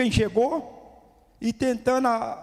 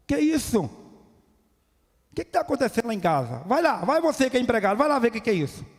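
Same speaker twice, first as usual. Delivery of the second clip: raised, outraged demand to a servant; indignant older brother; 4 semitones higher than usual. Acted. Older brother protesting the feast, indignant and raised. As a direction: bark it out like the offended older son. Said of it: "que revoltou-se com aquela situação e falou".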